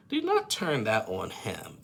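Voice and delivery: "Do not turn that on him" said slowly, each word stressed; slow, firm telling-off on "Do not turn that on him"; emphatic insistence. Real, not acted. Emphatic repeat of her objection.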